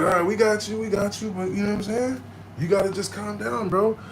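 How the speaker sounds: lightly voiced reassuring paramedic. Paramedics soothing a panicking patient, mock placating.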